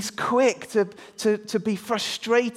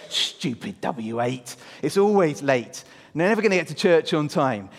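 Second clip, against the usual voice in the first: acted grumbling; muttering under breath; 3 semitones lower than usual. Andrew fed up with the late bus, muttering. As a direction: grumble crossly to yourself. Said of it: "He's muttering under his breath".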